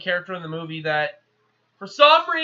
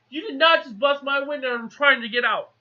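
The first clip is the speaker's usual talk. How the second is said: mildly indignant, higher-pitched protest; indignant retort; 5 semitones higher than usual. Retold or imitated. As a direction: play up the offended complaint. Retold indignant robot complaint.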